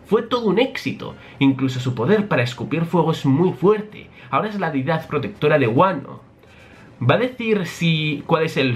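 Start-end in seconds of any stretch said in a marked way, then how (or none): 0.1-6.2 higher, boastful inventor voice; proud Vegapunk. Acted. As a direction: boast about the creation.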